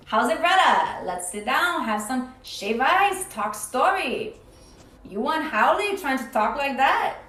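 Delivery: put-on Hawaiian pidgin accent. Shown as a demonstration. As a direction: imitate a laid-back Hawaiian local accent. Unannounced Hawaiian pidgin accent demo.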